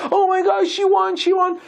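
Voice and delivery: high, loud, crying with joy; mother weeping with joy, shouting; tearful joyful shout. Retold or imitated. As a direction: shout through happy tears. Mother rejoices at daughter's win.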